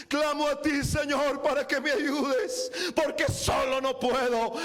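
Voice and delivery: urgent pulpit plea; fervent preaching. Real, not acted. Preacher showing brethren how to call on God, fervent preaching. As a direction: cry out insistently, carrying the congregation along.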